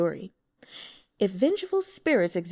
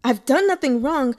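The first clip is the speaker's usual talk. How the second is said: loud, higher indignant protest; scowling protest; 5 semitones higher, 8 dB louder than usual. Acted. Detained broker protesting to the official, scowling. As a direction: bristle at being detained. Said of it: "Wen Liang scowled".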